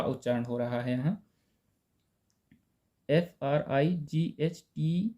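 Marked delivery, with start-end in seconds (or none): 3.1-5.1 slow, letter by letter spelling. Shown as a demonstration. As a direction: spell each letter out slowly for the class. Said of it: "इसको क्या पढ़ेंगे".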